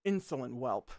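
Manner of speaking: low scornful scolding; contemptuous low rebuke; admonishing. A narrator's reading. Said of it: "the very same admonishment".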